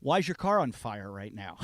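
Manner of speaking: mock shout from a cop; a cop shouting the question; cop's shout. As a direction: yell it like a cop who caught him. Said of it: "And they're like".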